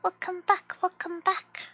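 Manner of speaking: loud, high, happy welcome; excited greeting. Real, not acted. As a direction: welcome them back with gusto. Greeting chatters loudly.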